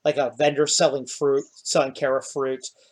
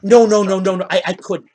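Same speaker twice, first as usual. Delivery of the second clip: much higher, louder flustered protest; gnome refusing; 5 semitones higher, 8 dB louder than usual. Acted. Gnome refusing the hero's gold, higher and loud.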